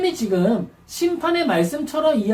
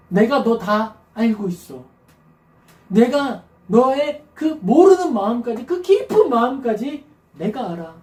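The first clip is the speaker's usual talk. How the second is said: gentle God. Retold or imitated. God answering a weary believer, reassuring. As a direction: comfort someone who is hurting. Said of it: "하나님이 그렇게 말씀해 주시는 거예요".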